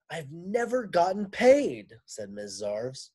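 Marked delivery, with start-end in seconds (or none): 0.1-2.0 raised, loud complaint; complaining teacher. Acted. Teacher griping to men, loud complaint. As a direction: Miss Zarves whining for respect.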